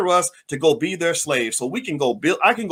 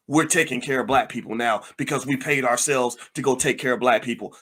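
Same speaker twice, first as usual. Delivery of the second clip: mocking self-congratulation; 5 semitones lower than usual. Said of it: "and then say".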